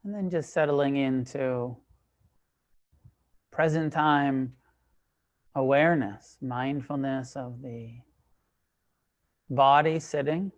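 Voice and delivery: calm, measured meditation guidance, long pauses between phrases; guided meditation. Real, not acted. Teacher leading a group into sitting meditation, calm and unhurried. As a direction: guide them into stillness, leaving space after each phrase.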